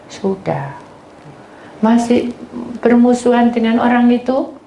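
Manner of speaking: ordinary talk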